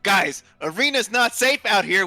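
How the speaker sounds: high, loud slow yell; dwarf yelling. Acted. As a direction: yell a warning out to the group. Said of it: "as he begins to yell".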